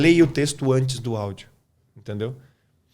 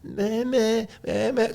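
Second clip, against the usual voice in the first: high-pitched imitation of a baby babbling; 9 semitones higher, much slower than usual. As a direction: mimic a baby trying out syllables. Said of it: "olha o bebê".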